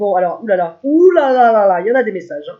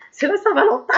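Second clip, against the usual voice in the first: high, bright burst of delight; excited exclamation; 11 semitones higher, 5 dB louder than usual. Real, not acted. Vlogger realizing the date, excited high exclamation. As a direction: blurt it out with glee. Sudden Valentine's Day exclamation.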